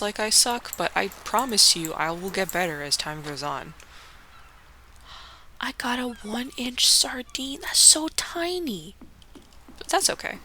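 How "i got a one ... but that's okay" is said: whispered, amused at the tiny catch. Real, not acted. Gamer whispering over a one-inch sardine, hushed.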